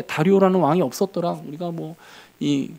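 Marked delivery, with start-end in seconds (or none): none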